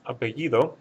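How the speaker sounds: apellido stressed on the I, a-pe-LLI-do. Shown as a demonstration. Spanish teacher giving the answer for the first word, apellido stressed on LLI. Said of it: "the stress is over that I".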